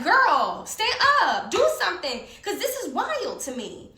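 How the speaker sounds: incredulous yelled plea; pissed plea. Retold or imitated. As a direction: shout at her to act, pitch soaring. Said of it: "So I'm pissed".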